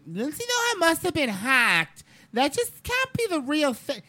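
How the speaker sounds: high, slow mock disbelief; a mocking take on denial; mocking fans. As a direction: ham up the shocked fan. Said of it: "you have people going".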